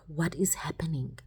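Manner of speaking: hushed, breathless whisper to God; retelling a whispered prayer on the bus. Retold or imitated. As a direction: whisper it like a desperate plea. Retold desperate prayer to God.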